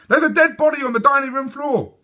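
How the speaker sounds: high, loud, frantic report; yelling in alarm. A narrator's reading. Sophie yells the news to her mother, alarmed. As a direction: blurt it out in a panic. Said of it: "she yelled".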